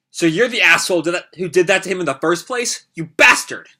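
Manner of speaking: heated, rising anger; angry. Acted. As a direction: snap it out in a rage. Kawaki cursing the attacker.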